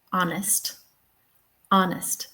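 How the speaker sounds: honest said as "ON-ist", H silent. Shown as a demonstration. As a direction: drop the H in honest, stress the first syllable. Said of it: "it's very often silent".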